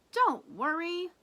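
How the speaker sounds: loud, high and slow, sure of herself; confident Lulu. Acted. Lulu reassures Papa, loud and confident. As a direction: promise it can't go wrong. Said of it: "says Lulu confidently".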